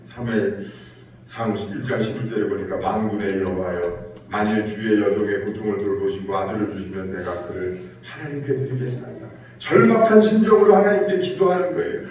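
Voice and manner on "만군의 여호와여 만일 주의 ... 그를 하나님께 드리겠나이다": desperate prayer. Retold or imitated. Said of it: "울면서 기도합니다".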